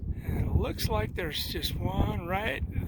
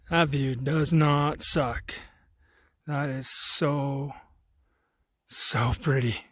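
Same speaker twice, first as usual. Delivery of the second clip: slow, lower, savoring the view; awed; 3 semitones lower, 4 dB louder, slower than usual. Real, not acted. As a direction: drink in the view slowly.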